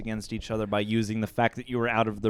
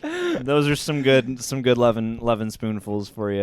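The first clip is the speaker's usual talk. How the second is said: put-on southern accent; 4 dB louder than usual. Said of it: "your accent cracks me up".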